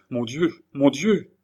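acted rising alarm; alarmed exclamation. A narrator's reading. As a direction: let dread lift the voice. Terrified woman cries out in story.

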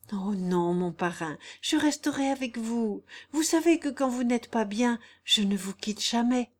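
lightly voiced loyal girl; devoted, reassuring Jeanne. Jeanne promising to stay by her godfather, reassuring.

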